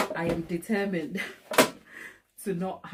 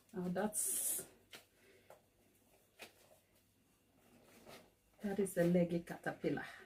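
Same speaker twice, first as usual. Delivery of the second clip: very quiet words broken by laughing; 10 dB quieter than usual. Speaking to viewers, laughing while talking. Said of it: "I don't know why I'm laughing".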